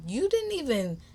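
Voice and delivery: retold indignant scolding; miffed, emphatic telling-off; attitude. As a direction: lay out the grievance with attitude. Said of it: "I had an attitude at that point".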